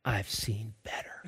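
very soft, slow deadpan; unimpressed. Retold or imitated. Nine-year-old answers the camper salesman, quietly unimpressed. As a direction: drop it low and quiet, coolly unimpressed.

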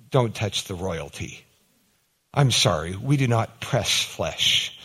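a light send-up of royal hauteur; dignified Queen. Retold or imitated. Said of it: "her dignified way of saying".

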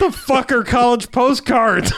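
high, laughing "the fuck are college postcards"; laughing disbelief. Retold or imitated. Friend retelling a movie scene, laughing disbelief. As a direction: cackle through the question in mock outrage. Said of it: "And it's like".

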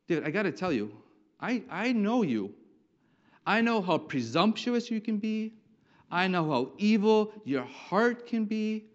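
put-on scolding older brother, emphatic on the accusations; big brother's rebuke. Eliab to his younger brother David, stern rebuke. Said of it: "David is rebuked by big brother".

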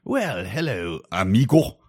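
smarmy greeting. Retold or imitated. Mocking Gomez line.

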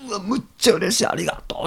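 high gushing thanks; delighted gush. Retold or imitated. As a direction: gush with joy over a great gift. Imitating delighted receiver. (大喜びでお礼を言う)

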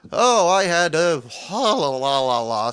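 loud, nonsense-syllable imitation of excuse-making; mock excuse. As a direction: imitate a man blurting an excuse. Imitating counter guy's rambling excuse.

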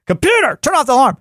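high-pitched exasperated calling out; frustrated yell. Retold or imitated. Man to his smart speaker that ignores him, frustrated yell. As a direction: raise your pitch and yell the command. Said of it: "I yell, like, seven times".

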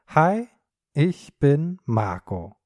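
ordinary talk, nothing marked

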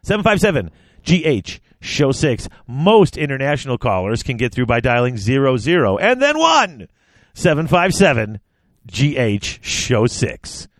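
hammed-up announcer pitch, slowing on the last digits. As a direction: sell the hotline like an over-keen announcer. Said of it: "it's in his announcer voice".

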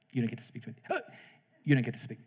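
soft, level teacher rebuke; calm quiet rebuke. Retold or imitated. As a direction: quietly close the matter. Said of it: "she just calmly says".

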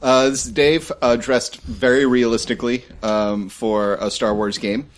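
muffled behind a mask; muffled grim plague doctor. Real, not acted. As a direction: speak through a mask. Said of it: "That's gonna sound really weird".

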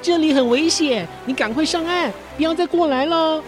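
calling out. Acted. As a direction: shout a warning from the rock. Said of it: "挥挥手叫他".

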